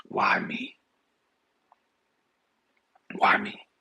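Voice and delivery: low, hushed self-pity; victim mentality. Acted. Joseph abandoned by his family in the ditch, hushed self-pity. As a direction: ask it low, almost whispered, to yourself. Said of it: "That victim mentality has to kick in".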